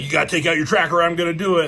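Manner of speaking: imitating an urgent shouted warning; retold yelling. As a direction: rattle off a yelled ultimatum. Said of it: "Hawkeye's still yelling".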